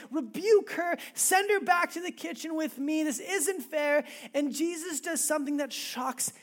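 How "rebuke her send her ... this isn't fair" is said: ranting and raving. Retold or imitated. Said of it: "starts ranting and raving".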